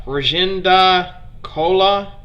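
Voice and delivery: Rajendra Kola sounded out slowly, hard K in Kola; tentative pronunciation. Real, not acted. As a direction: feel your way slowly through "Rajendra Kola". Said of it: "bear with me".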